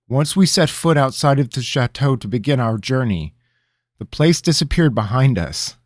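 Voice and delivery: a lightly voiced anxious apprentice; earnest young man. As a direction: explain carefully to the king. Rabineau explaining.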